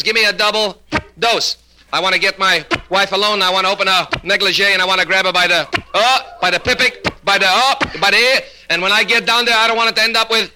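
high, excited stammer full of blocks; stuttering patient. Acted. Patient pleading for a double dose, stuttering. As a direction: hiccup and restart on "by the". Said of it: "a little impediment in his speech".

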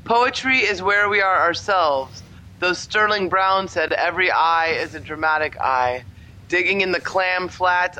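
measured recital with deliberate pauses; poetry reading. Pretend. Reading a poem about teaching, measured poet recital. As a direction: intone each line like a poet at a reading. Reads a third poem aloud.

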